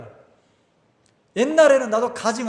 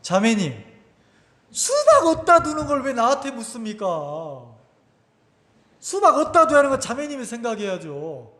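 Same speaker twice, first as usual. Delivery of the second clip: mildly indignant reproach, pitch lifted midway; a touch of acted exasperation; retold anger. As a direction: re-enact an annoyed telling-off. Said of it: "내가 막 화가 났어".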